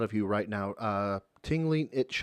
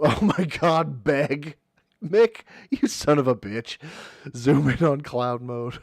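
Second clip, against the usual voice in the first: whisper yelling; 3 semitones higher, 6 dB louder than usual. Real, not acted. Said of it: "catch me whisper screams".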